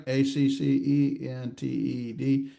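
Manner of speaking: slow, letter-by-letter spelling; measured, one letter at a time. Shown as a demonstration. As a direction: spell it out slowly for a class. Spells the word out for students.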